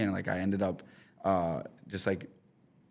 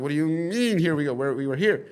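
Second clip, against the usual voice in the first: higher, louder mock disbelief; acting out a confused protest, pitched up; baffled retort; 6 semitones higher, 4 dB louder than usual. Retells his own baffled reply.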